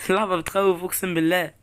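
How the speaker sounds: high, loud and shaken up, with laughter after; real rattled excitement; startled. Real, not acted. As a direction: protest in shock, still reeling from the scare. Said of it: "أنا أول مرة أتخض كده".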